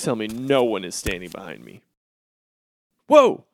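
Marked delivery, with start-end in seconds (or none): 3.1-3.4 sudden high, loud whoa; startled yelp. Acted. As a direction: jump at being caught. Caught naked, startled.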